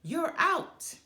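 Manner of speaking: loud, high bellow; bawling umpire. Acted. Umpire calling Brother out, loud and high. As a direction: bawl it out and end the game. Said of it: "bawled the ump".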